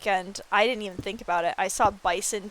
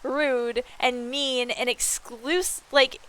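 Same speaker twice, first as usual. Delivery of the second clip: slow, higher mock-offended complaint; retold mock outrage; 5 semitones higher, 3 dB louder, slower than usual. Streamer retelling her complaint about the ban to her friend, mock outrage. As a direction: lay on a whiny mock grievance. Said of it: "I'm like".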